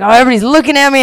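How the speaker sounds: high, fast self-conscious chatter. Retold or imitated. Girl in yellow pants at the festival, fast high chatter. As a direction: rush it out, pleased and flustered. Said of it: "And I was like".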